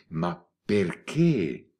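slow, voiceless whisper of ma perché; a hushed, puzzled ma perché; whispered question. Acted. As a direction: breathe perché out slowly as a bare whisper. Montalbano questions the old lady.

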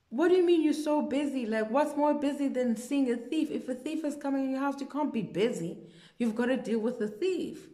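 high, heated mock scolding; indignant retort. Indignant retort in retold quarrel.

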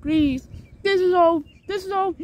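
high, loud desperate begging; pleading cry. Acted. Blueberry begs the wind for mercy, high and loud. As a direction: plead with the wind, rising in panic.

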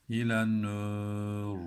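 nur ending in a thick dark r, slow; İlen nur drawn out, r kept dark; heavy ra. Shown as a demonstration. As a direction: end nur with a full heavy r. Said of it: "Ra'yı da kalın okuyacağız".

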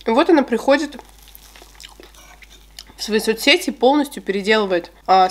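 chewing between words; muffled slightly by food; mouth partly full. Real, not acted. Seen 1: kiwi bitten at -4s; lips pursed, chewing motion while speaking.

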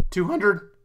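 cracking, breaking voice. Real, not acted. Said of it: "my voice cracked so bad there".

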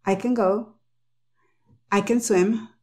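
I accented, CAN reduced to a short schwa; stress on I. Shown as a demonstration. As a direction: lean on I and rush through CAN. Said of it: "Está en el I".

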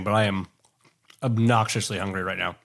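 words around a mouthful of chips; speaking while chewing crunchy food; crunching chips. Real, not acted. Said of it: "I apologize for my crunching".

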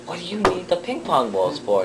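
mock exasperated bafflement; baffled dad. Dad asking son about the odd gift, baffled.

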